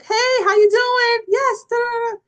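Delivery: high, bright, slow chirpy phone greeting. Retold or imitated. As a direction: play up her cheerful phone voice. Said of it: "usually I'm upbeat".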